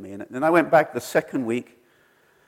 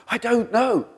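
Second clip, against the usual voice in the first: tearful reply; 11 semitones higher than usual. Retold or imitated. His own tearful reply retold.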